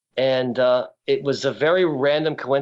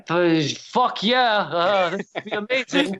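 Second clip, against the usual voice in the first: starstruck; 7 semitones higher, slower than usual. Retold or imitated. Starstruck reply to Barker.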